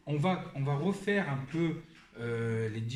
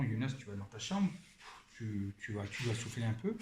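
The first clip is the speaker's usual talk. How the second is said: lower, softened parental instruction; quiet, low-key calming voice; 4 semitones lower, 5 dB quieter than usual. Retold or imitated. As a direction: gently send an upset child to cool off. Parent calming angry child.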